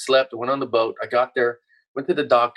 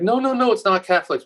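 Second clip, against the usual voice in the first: mock dismissive doctors; 9 semitones higher than usual. Guest mocks doctors denying the side effect, high mock voice. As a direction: mimic the doctors waving it off. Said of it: "they're like".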